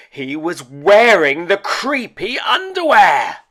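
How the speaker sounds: loud, high cry of alarm; loud startled exclaim; shocked outburst. A narrator's reading. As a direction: blurt the twist out in alarm. Shock twist in story.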